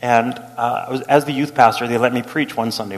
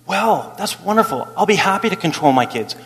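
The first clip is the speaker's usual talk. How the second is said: sarcastic; 3 semitones higher than usual. Retold or imitated. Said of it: "You know what I wanna say?".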